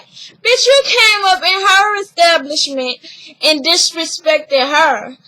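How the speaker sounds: high-pitched indignant outburst; sassy, incredulous scolding. Real, not acted. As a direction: call her out, pitch jumping up. Indignant aside at Naja.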